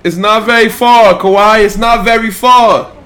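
high, loud encouraging calls; excited cheering. Real, not acted. Dad cheering his toddler to walk, excited encouragement.

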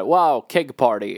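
drawn-out, impressed party wow; slow, lightly acted awe; mock amazement. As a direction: imitate a wowed exchange student, slowly. Imagining a drunk student's amazement.

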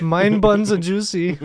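mock German accent, laughing; a hammy German accent. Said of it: "keep doing the German accent".

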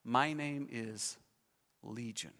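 a hushed demon naming itself; demon's answer. Acted. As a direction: let the name sink low and ominous. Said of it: "the demon responds".

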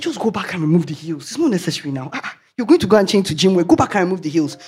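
lightly voiced divine instruction; a clear voice from God. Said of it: "He said".

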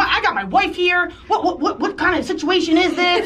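mock shock from an indignant football player; shocked outburst. Football player shouting at escort, mock shocked outburst.

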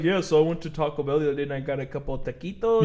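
lightly mocked white guy, low-key delivery; white guy showing off accent. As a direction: mimic a casual guy over-pronouncing "taquitos". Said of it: "it'll be a white guy's like".

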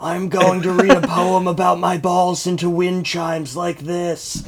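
soft mock ASMR voice; hushed parody of an ASMR streamer; ASMR Jeb. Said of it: "I'm A S M R Jeb".

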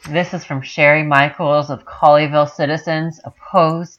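hammed-up Texas-mom accent, mocking; mock Southern accent. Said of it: "that is a North Carolina mid-acc-, uh, mid-Atlantic accent".

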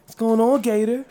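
creep voice. Acted. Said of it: "Why your creep voice?".

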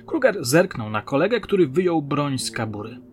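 usual speaking voice

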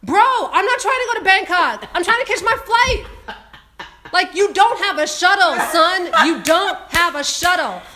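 loud, high scolding through laughter; laughing mock scolding. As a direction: tell them off half laughing. Mock ranting at the airline.

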